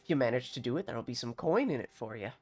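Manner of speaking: put-on grateful farmer in a country accent; bad rustic accent. Farmer offers a stranger a job, bad rustic accent. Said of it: "bear witness to my bad accent".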